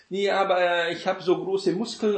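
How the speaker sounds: lightly voiced show-off; mock muscle brag. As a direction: show off your muscles, tongue in cheek. Imagined quarrel, third boaster.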